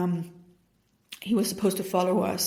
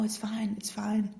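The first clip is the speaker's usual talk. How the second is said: softer, whispered reassurance; shocked whisper; 6 dB quieter than usual. Retold or imitated. Husband in shock reassuring her.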